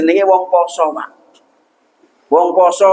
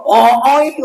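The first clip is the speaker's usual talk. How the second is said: wife startled; 3 semitones higher than usual. Retold or imitated. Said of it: "ngono kuwi coba".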